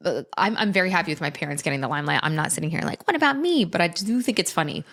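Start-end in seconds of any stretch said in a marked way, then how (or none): 3.1-3.7 much higher, whiny self-pity; hammed-up attention seeker; mock jealous whine.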